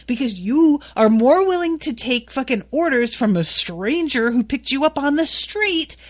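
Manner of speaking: retold furious rant at a jealous boyfriend; angry rant. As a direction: tear into him with biting sarcasm. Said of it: "rightfully is like".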